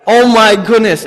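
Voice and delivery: loud, slow, horrified oh my goodness; a parent's loud shocked cry; alarmed. Retold or imitated. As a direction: gasp it out at the sight of the dent. Seeing daughter's dented head.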